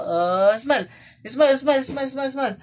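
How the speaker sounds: high, loud coaxing sing-song. Real, not acted. Father coaxing his baby to smile on camera, high baby talk.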